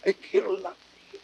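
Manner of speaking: fading, breathless whisper; dying whisper. Acted. Brutus breathing his last words to Caesar's ghost in a whisper. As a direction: let the last words die away.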